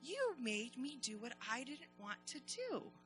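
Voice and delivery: grateful. Acted. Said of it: "she said".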